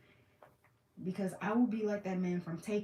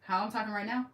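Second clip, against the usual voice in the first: raised, projecting talking voice; usual projected voice; 2 semitones higher, 3 dB louder than usual. Shown as a demonstration. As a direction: project it a little, as for an audience. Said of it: "I'm talking the way that I was talking".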